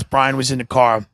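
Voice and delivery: ordinary talk, nothing marked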